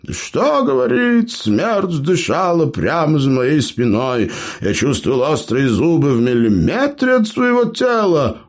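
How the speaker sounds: high, bragging storyteller voice; boastful gnome. Acted. Gnome brags to clanmates, high boastful voice. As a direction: brag to the wide-eyed listeners. Eber tells his tale.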